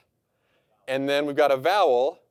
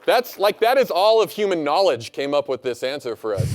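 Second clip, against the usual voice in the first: excited; 2 semitones higher, 5 dB louder than usual. Real, not acted. Mock awe at ChatGPT answer.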